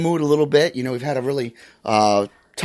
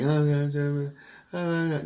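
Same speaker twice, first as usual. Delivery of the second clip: mock sleepy mumbling, softer; sleep-talk noises; 7 dB quieter than usual. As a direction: imitate someone murmuring in their sleep. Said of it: "little noises like".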